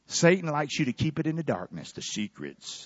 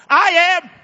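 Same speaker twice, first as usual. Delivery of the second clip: much higher and louder I am; shouted declaration; 11 semitones higher, 13 dB louder than usual. Shown as a demonstration. Preacher showing the church how to really shout I'm free. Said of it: "Can you say it like you're really free?".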